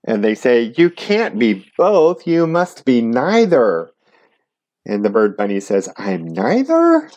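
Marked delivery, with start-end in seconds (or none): 0.8-3.9 insistent group. Acted. The group rejects the bird bunny. 6.0-7.1 high, slow, unsure; a high, drawn-out confused question; puzzled question. Acted. Bird bunny, confused.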